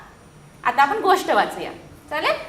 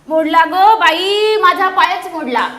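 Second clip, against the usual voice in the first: loud, slow mock wail of pain; centipede cries out; 6 dB louder, slower than usual. Centipede trips on a stone and cries out loudly, slowly. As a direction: stretch out the cry over the broken leg. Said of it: "गोम ओरडली".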